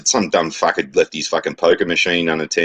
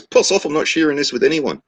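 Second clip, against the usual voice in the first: high-pitched mock Kiwi farmer; joke-telling New Zealand accent, pitched up; 9 semitones higher than usual. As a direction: snap back in a put-on New Zealand accent. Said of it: "New Zealand accent there".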